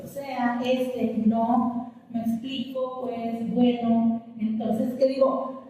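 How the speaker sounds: string out hesitant fillers as if searching for the next thought; mock hesitation; thinking with fillers. Shown as a demonstration. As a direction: demonstrate groping for words. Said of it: "te quedas como que pensando".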